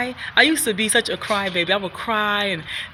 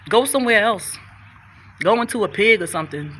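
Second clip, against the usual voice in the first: commanding the demon. Retold or imitated. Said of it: "I told that demon he got".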